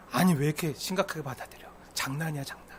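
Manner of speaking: soft, low offhand excuse; quiet brush-off. Acted. Offender telling neighbour it's just a joke, quiet. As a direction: play down the hurt softly.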